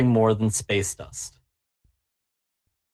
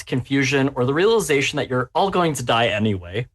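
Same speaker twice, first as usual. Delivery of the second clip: ordinary talk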